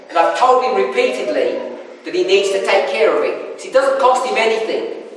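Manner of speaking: retold wife's running complaint, mildly exasperated; mock-aggrieved venting; spieling grievances. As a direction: reel off a list of gripes, lightly acted. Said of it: "starts spieling all of her grievances".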